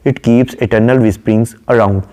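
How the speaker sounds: slow, measured reading of a poem line; poem recitation. Acted. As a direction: recite it slowly and deliberately. (धीमी, ठहरी हुई कविता-पाठ की आवाज़)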